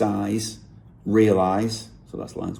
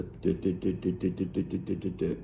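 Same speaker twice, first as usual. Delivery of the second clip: soft, evenly tapped-out "du-du-du" with no accent; even syllable beat; 7 dB quieter than usual. Shown as a demonstration. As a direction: count out the rhythm on identical, quiet "du" sounds. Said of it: "with no real emphasis on".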